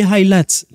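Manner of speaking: « highlights » dit dans la phrase, à l'anglaise, « haï-laïts »; « highlights » glissé vite au milieu de la liste; English word in a sentence. Shown as a demonstration. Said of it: "Excusez-moi pour mon anglais". (en passant, « highlights » à l'anglaise)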